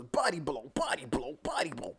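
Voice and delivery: breathy hits in rhythm; hushed ringside punch count; whispered punch calls. Retold or imitated. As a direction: whisper each blow like a punch landing. Mimicking punches in fight scene.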